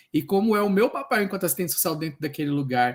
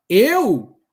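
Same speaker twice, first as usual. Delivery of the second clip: confessing helplessness; 6 semitones higher, 7 dB louder, much slower than usual. Retold or imitated. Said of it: "E eu falei pra ela".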